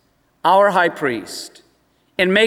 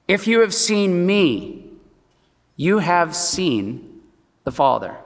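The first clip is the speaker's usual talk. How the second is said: Jesus gently correcting. Retold or imitated. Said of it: "at this young man and saying".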